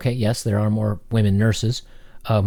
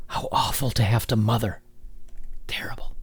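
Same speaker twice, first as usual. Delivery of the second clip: hushed mock dismay, trailing softer; sarcastic horror; 5 dB quieter than usual. Commentator ridiculing complaints about mothering, mock-horrified. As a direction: feign being appalled, dropping quieter.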